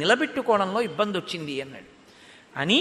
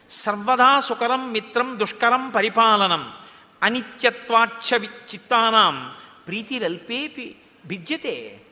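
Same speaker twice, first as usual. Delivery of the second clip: slow Sanskrit verse recitation; 3 dB louder than usual. Retold or imitated. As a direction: chant the verse slowly and firmly. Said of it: "అడిగితే ఇప్పుడు అన్నాడు". (నెమ్మదిగా శ్లోక పఠనం)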